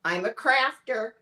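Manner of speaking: "I'm a crafter" in a Midwestern American accent. Shown as a demonstration. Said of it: "test your Midwestern American accent".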